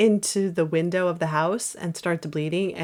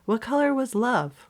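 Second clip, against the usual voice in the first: Zooey Deschanel line reading; 4 semitones higher than usual. Acted. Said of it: "And I'm gonna be Alma".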